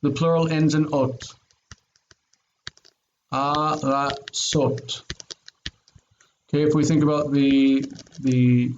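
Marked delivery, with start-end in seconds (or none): 3.3-5.0 slow, careful Hebrew model word; slow Hebrew pronunciation. Shown as a demonstration. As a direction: spell out aratzot slowly syllable by syllable. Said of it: "this is near and it's long".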